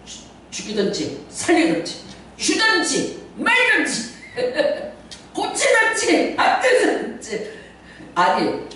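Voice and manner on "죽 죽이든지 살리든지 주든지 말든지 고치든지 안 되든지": rising, climbing higher with each word, slowing; shouted demand. Retold or imitated. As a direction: yell each demand higher than the last. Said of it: "소리를 질러가면서". (점점 높아지는 외침)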